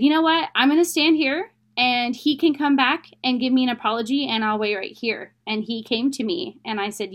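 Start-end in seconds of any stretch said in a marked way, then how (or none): 0.0-5.3 firm demand. Retold or imitated. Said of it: "And so I said".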